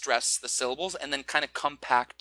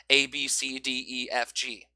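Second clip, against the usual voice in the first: A, B, C said level and evenly; each letter given the same length; even beats. Shown as a demonstration. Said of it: "same strength, same duration, same pitch".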